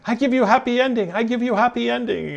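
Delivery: high, put-on mock Asian accent for the masseuse; hammed-up Asian masseuse accent, pitched high. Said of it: "she's like".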